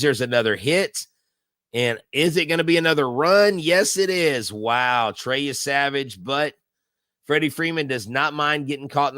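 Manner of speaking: excited game call, rising on the run; live play-by-play. Real, not acted. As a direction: call the hit like a broadcaster.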